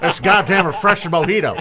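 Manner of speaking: lightly voiced folksy bluster; J R impression. Co-host topping the mojito bit, folksy impression. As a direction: savor it like a country commentator. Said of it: "just him saying mojito".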